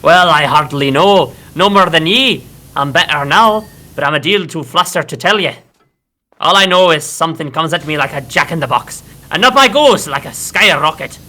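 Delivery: put-on reading Bill's lines in a light Scottish accent; a hint of a Scottish workman. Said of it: "That does sound more Scottish".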